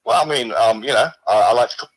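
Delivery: a lightly put-on, weak Australian accent; a mock Aussie bloke voice, barely there; poor Australian accent. A severed hand calls the stream in a poor Australian accent. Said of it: "I put a bit of a voice on it".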